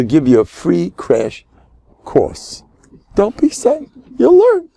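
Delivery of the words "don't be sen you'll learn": high-pitched scolding yell; mock yelling wife. Imitating the wife yelling at her sensitive husband, mock yell. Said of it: "She's gonna yell at you".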